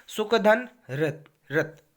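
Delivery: slow, deliberate सुख धन रत; slow dictation. Shown as a demonstration. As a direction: say सुख धन रत slowly and clearly. Teacher dictates example slowly.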